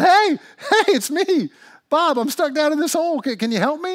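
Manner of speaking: high, loud plea to someone above; yelling for help. Acted. Trapped man hails the pastor looking down, yelling. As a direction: call out urgently from down below. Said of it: "He starts yelling".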